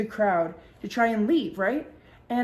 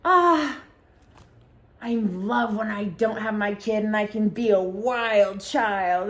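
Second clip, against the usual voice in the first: giddy friend; slower than usual. Retold or imitated. Friend gushes about being wild.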